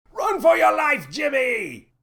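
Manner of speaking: captain yelling at Jimmy to run; panicked shout. A narrator's reading. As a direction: scream a warning to flee. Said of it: "shouted the captain".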